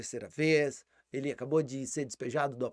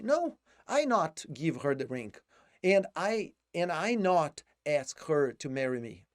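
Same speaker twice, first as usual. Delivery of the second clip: mock Joey; 4 dB louder, slower than usual. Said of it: "o Joey fala assim".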